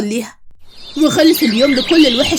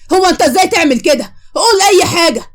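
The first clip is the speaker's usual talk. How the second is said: higher, crying as she demands an answer; tearful angry demand; 5 semitones higher than usual. Acted. Pulling Khaled up to face her, crying and demanding. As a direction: plead and accuse through tears.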